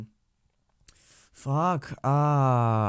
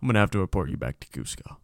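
Kronk; 4 dB quieter, faster than usual. Acted. Henchman reporting someone to Cusco, apologetic cartoon voice. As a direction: play the big cartoon lug reporting someone. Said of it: "the guy that plays fucking, uh, Kronk".

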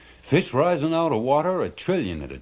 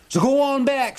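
much higher, louder fisherman voice; triumphant fisherman; 5 dB louder than usual. A narrator's reading. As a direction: crow your victory. Charlie triumphant after the fight.

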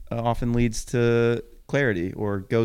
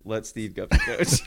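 slow, measured reading of the whole haiku; full haiku recital; 3 semitones higher, slower than usual. Pretend. Reading the finished haiku back, slow and measured. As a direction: recite the finished poem with ceremony. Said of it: "That's really good".

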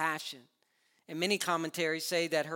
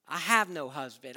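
a hint of defiant sass; 5 dB louder than usual. Samaritan woman talking back to Jesus, mildly defiant. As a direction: hand on the hip, talking back. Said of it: "an idea that she was being defiant".

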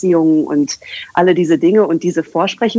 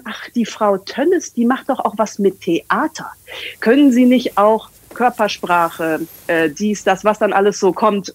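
a light mock whisper of the university staff; colleagues' request; 2 semitones higher than usual. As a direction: murmur it like gossiping colleagues.

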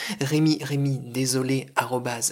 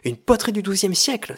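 high-pitched acted exclamation; exclaimed outburst; 7 semitones higher, 4 dB louder than usual. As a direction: cry out in theatrical disbelief. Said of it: "s'écria Paul".

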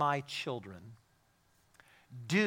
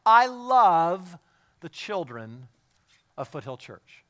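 wholehearted declaration; 2 semitones higher, 10 dB louder, much slower than usual. Shown as a demonstration. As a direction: declare it big and heartfelt to the room. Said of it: "I can say this with all my heart".

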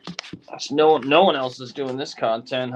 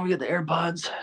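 whisper; 4 semitones higher than usual. Real, not acted. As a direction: keep it hushed. Whispering aside.

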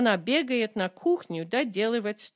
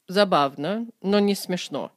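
dry and unimpressed; 4 dB louder than usual. Shown as a demonstration. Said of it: "The second guy is definitely a stick in the mud".

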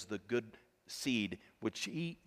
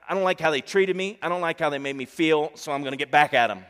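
resentful voice; 3 semitones higher, 10 dB louder than usual. Retold or imitated. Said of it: "the enticement is that".

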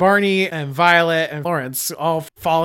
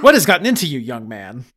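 loud then dropping low; mother shocked at her son's words; scandalized parent; 3 semitones lower, 6 dB louder, faster than usual. Acted. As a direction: scold him in outrage.

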